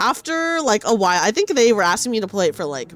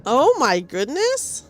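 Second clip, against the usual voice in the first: surprised; 3 semitones higher, much slower than usual. Real, not acted. Reacting to game scene.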